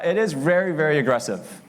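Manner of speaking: lightly voiced Russian mobster; John Malkovich as Russian mobster. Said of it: "my best impression of John Malkovich doing an impression of a Russian mobster".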